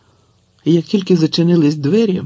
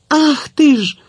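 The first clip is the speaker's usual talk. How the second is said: high, loud startled cry; a sudden shocked exclamation; 12 semitones higher, 5 dB louder, slower than usual. A narrator's reading. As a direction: Tetiana catching the boy, crying out high and loud. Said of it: "скрикнувши".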